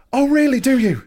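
high, mocking "oh really, do you?"; retelling the row with the pharmacist, a high sarcastic jab; sarcastic retort.

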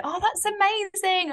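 high, drawn-out mock admiration; high-pitched imitated crowd praise; imitating amazed onlookers. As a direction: gush like an impressed passer-by, stretching it out. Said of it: "everyone was going".

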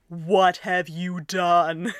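very slow, dismayed "What have you done?"; stunned slow exclamation; bewildered. Acted. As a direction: drag it out like your brain just broke. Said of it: "the person in the next line saying".

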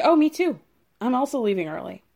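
hammed-up eagerness, then rush; mock eager. Voicing Michael copying Juan.

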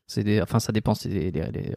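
low, strained, choking on a drink; forcing words out while choking. Real, not acted. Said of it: "Pardon, je m'étouffe". (en train de s'étouffer)

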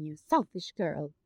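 cold, clipped reproach, lightly done; a touch of the haughty aunt; Lady Catherine's intonation. Retold or imitated. Speaker imitating Lady Catherine scolding Lizzie, cold reproach. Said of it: "Like, that intonation".

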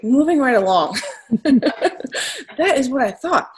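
amused, talking through laughter; laughing. Real, not acted. Teasing a co-host who has never been to Maine, laughing. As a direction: laugh it off while moving things along.

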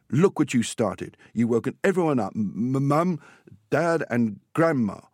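put-on storybook boy's stammered reproach; scolding, stammering boy. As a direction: scold loudly, stumbling on the M. Boy scolds his dog in story.

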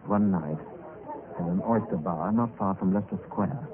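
story narration. A narrator's reading.

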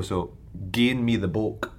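Glaswegian "gain me the book", rising at the end; broad Scottish accent. Acted. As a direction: say "gain me the book" in thick Glasgow Scots. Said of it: "Thick Scottish accent".

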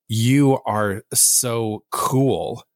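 slow, deadpan "You are so cool" with no lift; flat sarcastic read. Retold or imitated. Friend reading a text aloud in a flat sarcastic tone. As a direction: drag it out, unimpressed, like a put-down. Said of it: "And they said it like that".

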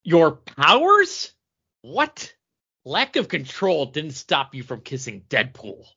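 loud, high, slow start to a comic-panel line; mock-dramatic comic book reading. Shown as a demonstration. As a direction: read it like a hammed-up comic hero. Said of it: "That was a dramatic reading".

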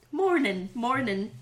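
"morning" ending in a plain n; dropped G. Shown as a demonstration. Demonstrating the Irish rule, "morning" without its g. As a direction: drop the g off "morning". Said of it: "Drop your G's".

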